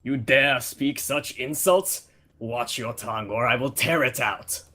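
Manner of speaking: a hint of a Russian accent, threatening; mild Russian accent, offended warrior threat. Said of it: "I'll just do a Russian accent".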